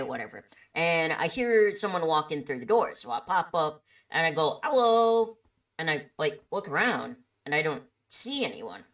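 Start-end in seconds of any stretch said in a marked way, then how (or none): 4.6-5.4 high, loud, drawn-out greeting; calling out. Retold or imitated. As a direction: sing out a hello to whoever came in. Greeting an unseen customer.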